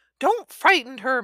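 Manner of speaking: high-pitched scolding. A mother scolds a man for scaring the child with warnings, scolding. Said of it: "Mam scolded".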